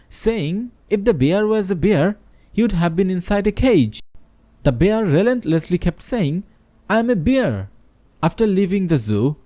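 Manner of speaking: reading a fable aloud to the class, lightly voicing the characters; story narration. A narrator's reading. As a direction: tell it like a storyteller to students. Teacher reads a story aloud.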